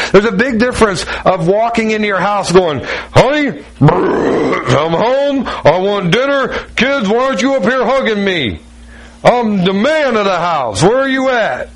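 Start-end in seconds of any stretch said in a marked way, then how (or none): 3.1-11.7 mock bossy husband barging in, pitched higher; hammed-up domineering dad demanding attention; tyrant husband. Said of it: "being that tyrant and commanding".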